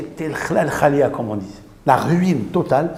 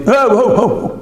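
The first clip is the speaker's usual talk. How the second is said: higher, louder groaning oh's; mock groaning; 8 semitones higher, 5 dB louder than usual. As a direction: groan like a possessed man. Le possédé répond en grognant. (gémissements imités)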